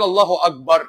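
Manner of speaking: loud mock call of Allahu akbar, half-sung; mock call to prayer. Host mimics the muezzin while answering a viewer, loud.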